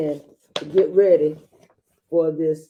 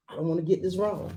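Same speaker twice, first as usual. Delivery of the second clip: mock nervous dad; 6 dB quieter, faster than usual. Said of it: "Look at the sheer fear on his face".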